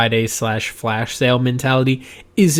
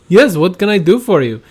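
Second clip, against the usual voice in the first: higher, louder mock Indian accent; imitated Indian accent; 6 semitones higher, 5 dB louder than usual. Rashid answering his coworker, imitated Indian accent. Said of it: "the new guy in from India".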